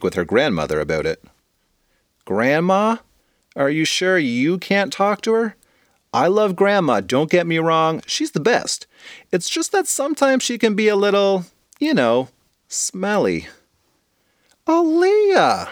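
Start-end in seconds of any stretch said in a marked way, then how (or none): 2.2-13.5 put-on high pleading kid voice; high girl reluctant to visit grandma; whiny young girl. Aaliyah voiced by narrator. 14.7-15.7 high loud scolding call; high loud scolding yell of the daughter's name; hollering mom. Acted. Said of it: "hollered her mother".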